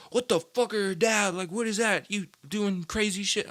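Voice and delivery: put-on high, puzzled old man voice; baffled Grandpa. Grandpa questioning his stoned grandson, high baffled voice. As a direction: ask like a confused grandpa. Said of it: "he was like".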